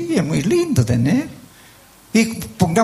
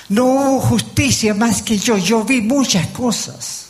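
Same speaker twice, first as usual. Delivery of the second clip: boasting king; 3 semitones higher, slower than usual. Acted. Acting the king's boast.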